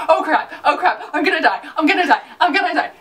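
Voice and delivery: fast, giggling mock panic; retelling the deputy's panic, laughing; laughing panic quote. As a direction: rattle it off laughing in fake terror. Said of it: "he's just like".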